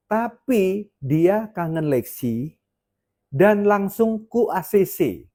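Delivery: slow, measured quote of God; God speaking. Retold or imitated. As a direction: pronounce it slowly, spacing out each phrase. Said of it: "ngomongnya gini". (suara Tuhan, pelan dan terukur)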